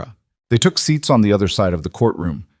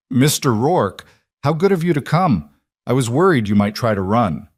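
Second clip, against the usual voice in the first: higher-pitched, falsely gracious welcome; smug greeting; 3 semitones higher than usual. Acted. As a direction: greet him with a widening smile, smugly polite. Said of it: "his smile widened".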